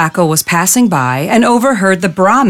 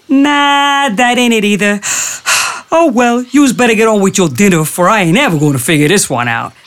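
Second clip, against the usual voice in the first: bumbling jackal; 3 semitones higher, faster than usual. Acted. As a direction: pretend to be hopelessly lost. Jackal garbling the story.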